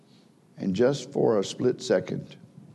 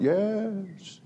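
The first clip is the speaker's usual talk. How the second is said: put-on kids agreeing; 9 semitones higher, 5 dB quieter than usual. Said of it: "they all went".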